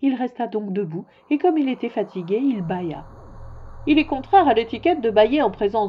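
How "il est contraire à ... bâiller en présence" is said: loud, pompous monarch; louder royal reproof; reproving king. Acted. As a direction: lay down etiquette in a loud voice.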